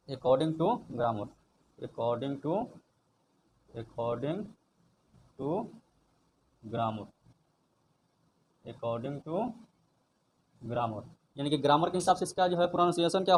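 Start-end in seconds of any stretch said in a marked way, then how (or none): 0.1-11.0 dictation pace. Shown as a demonstration. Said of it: "dictating slowly to students".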